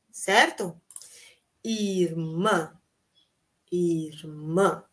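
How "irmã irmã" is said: irmã ending on a nasal ã; teacher modelling irmã. Shown as a demonstration. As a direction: let irmã close on a nasal ã. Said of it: "esses sons nasais".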